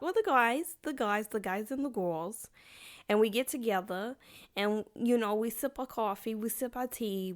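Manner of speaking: playful mock posh voice, sipping tea; jokey accent for a gossip hangout; weird put-on accent. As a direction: ham up a silly accent for the girls. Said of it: "I'm doing these weird accents".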